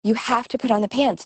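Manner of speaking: retold mother getting mildly exasperated; getting worked up. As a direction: rush it out, patience slipping. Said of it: "she's getting all worked up".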